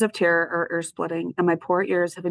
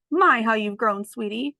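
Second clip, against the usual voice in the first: higher, fond voice; doting old dog; 4 semitones higher, 3 dB louder than usual. Acted. Snickers doting on Ruby, fond voice. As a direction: dote on the child.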